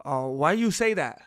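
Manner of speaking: put-on low, lightly broken-English accent; a hint of foreign accent, challenging; slight broken accent. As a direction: imitate a blunt caveman-like broken accent. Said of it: "that little bit of the accent".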